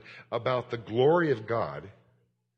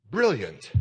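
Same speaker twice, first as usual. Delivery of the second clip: mock British accent on one admiring word; 4 dB louder than usual. Imagined British listeners praising the visiting speaker, British accent. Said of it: "in that wonderful British accent".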